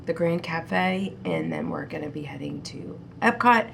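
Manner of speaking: blocked nose voice; talking through a stuffy nose. Real, not acted. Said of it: "Sorry if I'm sounding stuffy".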